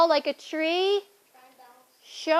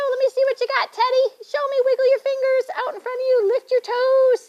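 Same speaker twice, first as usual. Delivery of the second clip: excited; 10 semitones higher, faster than usual. Acted. Yoga teacher leading caterpillar pose.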